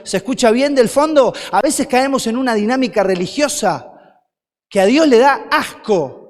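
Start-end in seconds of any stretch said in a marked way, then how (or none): 1.5-6.2 repeated louder for emphasis. Shown as a demonstration. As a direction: say it again so the back row hears. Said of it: "Quiero decírtelo de nuevo por si no se entendió".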